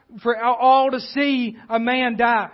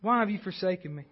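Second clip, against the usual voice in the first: hushed plea to God; 4 semitones lower, 8 dB quieter, faster than usual. Retold or imitated. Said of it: "we know Jesus asked God".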